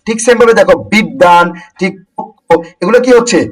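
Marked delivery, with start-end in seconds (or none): 0.9-1.5 বিদ্যান said "bid-dan", d held double; বিদ্যান with a long d and no w or y glide; doubled consonant. Shown as a demonstration. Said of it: "এগুলো হচ্ছে দ্বিত্ব হচ্ছে".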